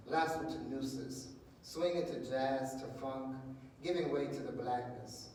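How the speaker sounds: emphatic poetry reading in short, separated phrases; spoken-word poem. Acted. Poet performing as Medusa's son for an audience, spoken-word poem. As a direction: declaim each line firmly, pausing after it. Reads own new poem.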